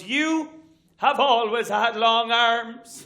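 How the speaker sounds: mother annoyed the jacket won't fit; irritated mother. Retold or imitated. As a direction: draw out the accusation. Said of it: "and goes".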